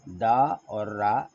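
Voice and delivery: दा and रा said slowly, one at a time; slow syllables. Shown as a demonstration. Teacher breaking "ब्रदर" into syllables for pupils. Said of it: "ब्र".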